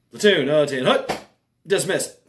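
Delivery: officer calling a platoon to attention, lightly acted; mock drill command. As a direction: imitate a brisk dismissal order. Acting out officer dismissing the platoon.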